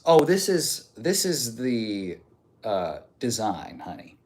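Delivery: slow, drawn-out diva sass; sassy reply. Acted. Streamer sassing a chatter about his chest hair. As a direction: purr it back with attitude.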